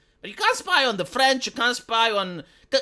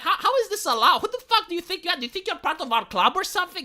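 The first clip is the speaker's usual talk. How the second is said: higher, laughing mock indignation; mock freak-out; 7 semitones higher, faster than usual. The EU freaking out at the US, laughing mock outrage. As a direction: sputter it like a club snob, half laughing. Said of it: "the European Union is freaking out".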